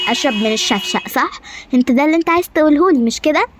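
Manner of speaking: a queen tearing into her servant; angry queen. Acted. Queen berating her servant over the food, rising anger.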